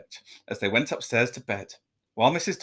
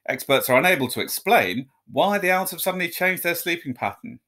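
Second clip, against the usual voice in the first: news read. A narrator's reading. Newsreader reading the report.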